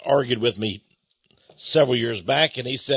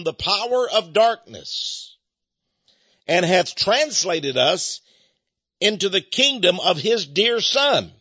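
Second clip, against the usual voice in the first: scripture reading; 3 semitones higher than usual. Acted. Preacher reads Colossians aloud to his congregation, solemn scripture reading. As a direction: read the verses as holy words to the congregation.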